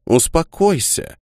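sharp rebuke. A narrator's reading. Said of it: "одёрнула её графиня".

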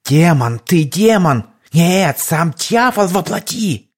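trembling, slowing horror; terrified cry. Acted. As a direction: recoil from a demon. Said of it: "Задрожал он". (в ужасе, дрожа)

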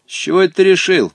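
loud, high surprised question. A narrator's reading. Boy questioning a stranger's guess, surprised. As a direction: voice jumps up in surprise. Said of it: "удивился мальчик".

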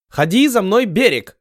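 high broken-Russian yell; yelled broken call. Acted. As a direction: Ottoman yelling again from the galley, broken accent. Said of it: "заорал с галеры осман".

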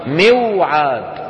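"موعد" very slow as miw-'aad; original unaltered form. Shown as a demonstration. Teacher shows the origin, "موعد" drawn out as miw-'aad. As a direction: stretch the waw after kasra in "موعد". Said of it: "أصلها".

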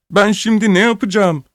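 put-on a lost boy crying; crying child. A narrator's reading. Injured orphan crying to the crowd, high weepy voice. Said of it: "Çocuk seferyada başladı".

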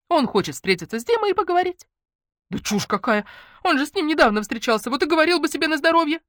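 jittery friend who can't stop talking; nervous chatterbox friend. Acted. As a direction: let Lenka rattle on from nerves. Lenka voiced by narrator.

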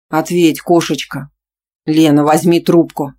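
put-on insistent boyfriend. Boyfriend's messages read aloud.

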